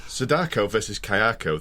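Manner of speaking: broad Yorkshire accent. Shown as a demonstration. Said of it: "I said it just for you in my Yorkshire accent".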